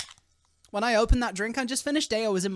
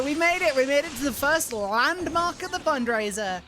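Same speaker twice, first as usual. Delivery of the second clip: excited celebration; 5 semitones higher than usual. Real, not acted. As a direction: celebrate the milestone. Celebrating fundraiser milestone.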